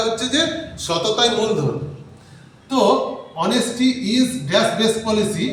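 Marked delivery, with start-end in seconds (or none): 3.4-5.5 very slow, word-by-word reading; slow teacher's read-aloud; slow dictation. Shown as a demonstration. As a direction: read the blank sentence slowly to the class. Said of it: "তাহলে কি হবে?".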